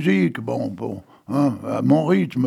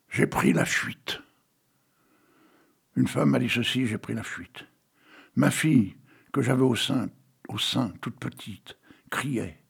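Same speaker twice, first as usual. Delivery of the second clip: hushed dramatic poem reading. Acted. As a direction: read it like a grieving mother's tale. Reads a Victor Hugo poem.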